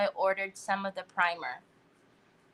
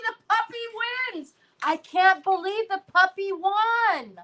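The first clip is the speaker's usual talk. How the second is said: high, bright cry that the puppy won; excited announcement; 8 semitones higher than usual. Real, not acted. Host telling viewers the puppy won, excited. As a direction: announce the winner like big news.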